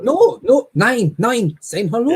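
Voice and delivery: high, harsh mock German; mock German accent. Joking about German greetings, a high mock German voice. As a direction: bark it up high like a cartoon German. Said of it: "It's like".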